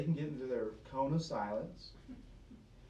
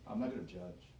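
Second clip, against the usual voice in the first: lower, softer, offhand mock excuse; mock breezy excuse; 8 semitones lower, 8 dB quieter, faster than usual. Preacher mocking a Christian who won't judge, breezy. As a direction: shrug it off like a cheerful fool. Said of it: "And say".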